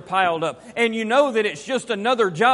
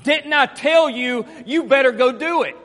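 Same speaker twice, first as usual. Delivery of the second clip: raised-voice parental telling-off, each word pressed hard; lashing out; 3 semitones higher, 5 dB louder than usual. Shown as a demonstration. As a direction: let your son have it over the chore. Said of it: "Or I can do this".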